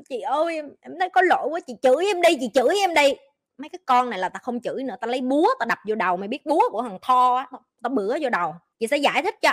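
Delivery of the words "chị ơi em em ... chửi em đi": put-on pleading girl. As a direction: mimic a remorseful girl asking to be scolded. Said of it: "khóc như mưa".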